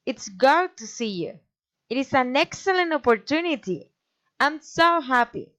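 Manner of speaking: exclamations dropping on YOU, OPPORTUNITY, HAPPY; falling exclamations. Shown as a demonstration. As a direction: lift SO, then let HAPPY fall. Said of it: "a falling intonation".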